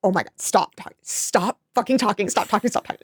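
soft, under-the-breath exasperation; muttered inner plea. Retold or imitated. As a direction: mutter it privately, as a retold thought. Silent inner reaction to her chatter.

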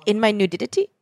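questioning quote, lilting up at the end; mild comedian impression. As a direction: lightly imitate a comedian's puzzled question. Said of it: "where she's like".

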